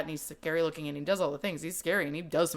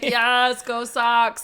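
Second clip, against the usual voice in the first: cheering fan; 6 semitones higher, 9 dB louder, much slower than usual. Retold or imitated. Cheering the Boston reference.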